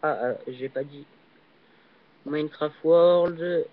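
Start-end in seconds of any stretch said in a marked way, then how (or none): 2.2-3.7 slow, French-accented English title; stretched English words, French accent. Real, not acted. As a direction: read out the English name slowly with a French accent. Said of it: "désolé pour mon accent anglais".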